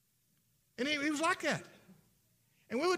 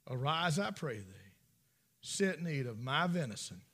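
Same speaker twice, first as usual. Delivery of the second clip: sly lying son; 3 semitones lower than usual. Acted. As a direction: murmur the lie so it isn't caught. Jacob deceiving his blind father.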